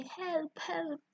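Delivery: high, soft pretend scream; mock scream. Green guards scared by the tiger, softly mock screaming. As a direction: squeal softly for help. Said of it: "they scream and they say".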